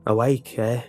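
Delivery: lunch lady calls out across the cafeteria; calling out. A narrator's reading. Lunch lady calling to the tied-up boy, sly and loud. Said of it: "a voice called out".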